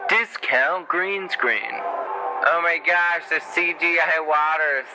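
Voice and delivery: drawn-out mock amazement at bad effects; mocking disbelief. Real, not acted. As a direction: stretch it out high, unimpressed. Mocking cheap movie effects.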